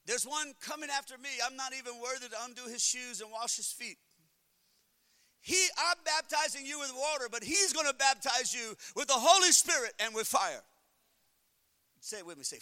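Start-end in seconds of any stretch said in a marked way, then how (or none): 0.0-10.6 John the Baptist, rising. Retold or imitated. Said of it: "He said".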